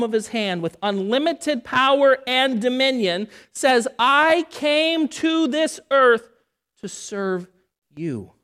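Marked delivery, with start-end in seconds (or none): 4.0-8.3 solemn Jesus quote. Acted. Quoting Jesus, dramatic pause.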